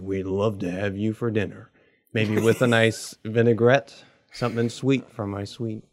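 lightly put-on country neighbor accent; soft country accent. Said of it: "it's a soft country accent".

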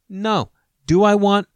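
usual speaking voice

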